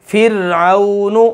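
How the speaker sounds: फिरऔनु slow, thin ra; thin ra example. Shown as a demonstration. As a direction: stretch फिरऔनु with a light ra. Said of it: "जैसे कुरान पाक में है". (फिरऔनु धीरे, बारीक रा से)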